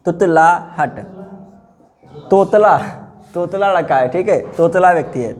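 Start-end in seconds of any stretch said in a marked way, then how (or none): 0.0-1.0 "तुतलाहट" in separated syllables, तुत-ला-हट; measured dictation of "तुतलाहट", part by part; sounded out. Shown as a demonstration. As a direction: say "तुतलाहट" with small gaps between its parts. Teacher sounds word out for class.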